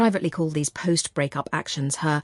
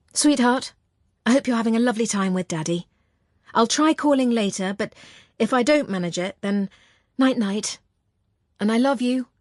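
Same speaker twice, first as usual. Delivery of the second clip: put-on tender to child; 5 semitones higher than usual. Mother on voicemail to son.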